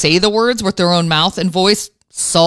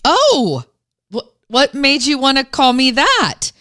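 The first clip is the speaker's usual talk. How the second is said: gentle mother hiding her alarm; calm and gentle; 6 semitones higher than usual. Retold or imitated. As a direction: keep it calm so he keeps talking. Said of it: "I very calmly said".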